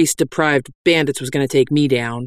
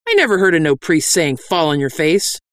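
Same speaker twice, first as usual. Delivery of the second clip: raised pitch, ending on a questioning rise; doubting bandit; 3 semitones higher than usual. Acted. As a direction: quote the order back with suspicion. Doubting bandit quotes the order.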